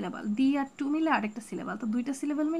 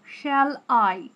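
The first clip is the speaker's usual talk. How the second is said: slow, শ্যাল light and আই weighted; slow iambic "শ্যাল আই", stress on আই; 4 dB louder, much slower than usual. Shown as a demonstration. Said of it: "শ্যালের থেকে আইয়ের উচ্চারণটা একটু গভীর".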